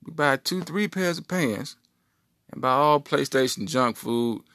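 the brain upping the offer; scheming brain. Acted. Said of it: "My brain was like".

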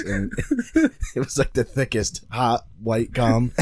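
slow gravelly retelling. Retold or imitated. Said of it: "Hearing it in your fucking gravelly voice".

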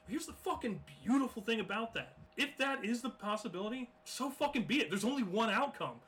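high, loud fired-up preaching. Real, not acted. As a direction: preach it at full force. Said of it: "Preach it".

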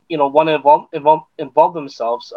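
repeating words while stumbling; stuttering. Real, not acted. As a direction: trip over the word involve. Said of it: "my apologies with the stuttering".

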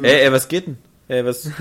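laut und lässig angeben; Xbox One als Kumpel. Retold or imitated. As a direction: spiel die Konsole, die rüberruft. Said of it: "da guckt die Xbox One noch komisch rüber". (laute, lässige Kumpelstimme)

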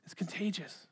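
a breathy whisper, savoring the word contagious. Acted. Preacher whispering the point to the congregation. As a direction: whisper it like a secret.

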